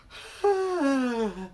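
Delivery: high breathy sigh like a yawn; open airy sigh. Shown as a demonstration. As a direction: release a relaxed open sigh. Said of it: "just almost like you're whispering".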